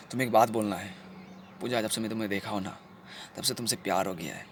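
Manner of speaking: soft, low, intimate voice; tender confession. Acted. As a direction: confess love softly and low.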